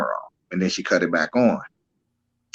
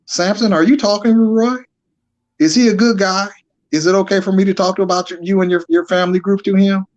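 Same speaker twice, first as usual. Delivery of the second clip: imitating friend; 8 semitones higher than usual. Retelling a friend's pleading questions.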